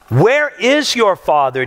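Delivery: slow, measured read of "Where is your father?"; scripture reading. Acted. Preacher reading the verse aloud, slow and measured. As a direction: read the verse plainly and deliberately. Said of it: "Back to verse nineteen".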